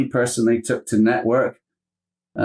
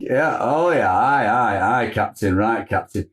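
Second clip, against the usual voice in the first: put-on thick Yorkshire accent. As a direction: play a blunt Yorkshire second-in-command. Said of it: "thick Bolton Yorkshire".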